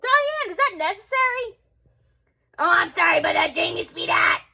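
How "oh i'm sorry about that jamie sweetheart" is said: put-on gruff old neighbor shouting; old lady voice. Old lady mock apology.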